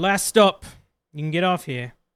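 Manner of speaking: loud, hollered call-out. Voicing carriage workers as they stop at the docks: calling out to passengers. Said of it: "they sort of call out".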